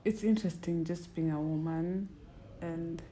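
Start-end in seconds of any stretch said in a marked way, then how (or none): 2.6-3.0 whispering. Real, not acted. Whispered aside.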